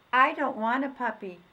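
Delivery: put-on a boy who has chosen; firm little boy. Boy insists on the old dog.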